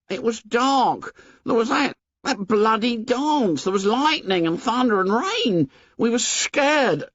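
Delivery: high anxious Piggy; anxious boy. A narrator's reading. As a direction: talk yourself out of guilt.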